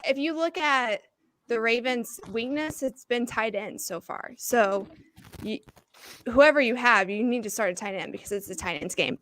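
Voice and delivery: breathless from running downstairs; out of breath, still catching air. Real, not acted. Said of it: "I'm out of breath because I just ran downstairs".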